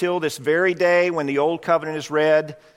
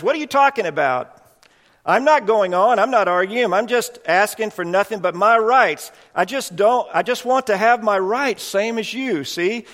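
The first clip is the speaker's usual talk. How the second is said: a proud ghost insisting he did his best, pitched up; indignant ghost; 4 semitones higher than usual. Acted. Ghost argues with bright man.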